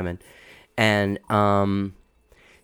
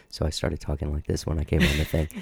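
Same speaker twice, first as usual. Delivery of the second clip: put-on host voice, lower and softer; fake radio-host voice; 5 semitones lower, 4 dB quieter than usual. Shown as a demonstration. Podcaster showing the fake voice he used on the show, put-on host voice. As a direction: drop your regular voice a little for the show. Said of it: "I started with a fake voice".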